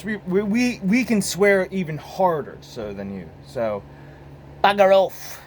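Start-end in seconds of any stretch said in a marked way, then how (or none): 4.6-5.4 loud, higher mock dismissal; mock curse. American showing British fans he can swear, mock-loud. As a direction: throw it out as a punchy curse.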